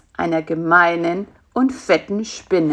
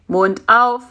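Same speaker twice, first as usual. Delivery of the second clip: firm, louder order; commanding; 3 semitones higher, 5 dB louder than usual. Acted. Spider orders fly to open up for feeding, commanding. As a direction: give it as a brief command. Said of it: "kommandierte er".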